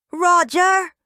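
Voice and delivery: high, loud shout of a name; angry yell. A narrator's reading. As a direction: bellow his name from across the lot. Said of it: "he yells".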